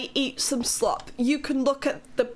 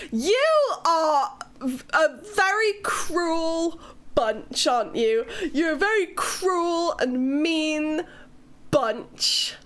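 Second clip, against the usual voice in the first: mock offended; 3 semitones higher, slower than usual. Real, not acted. Teasing chat as cruel.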